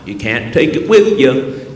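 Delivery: slow Southern American drawl; folksy South Carolina accent. Retold or imitated. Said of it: "in South Carolina, you find".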